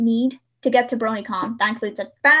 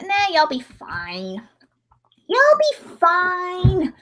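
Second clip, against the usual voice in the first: slow reassurance; 5 semitones higher, much slower than usual. Acted. Voicing a character reassuring.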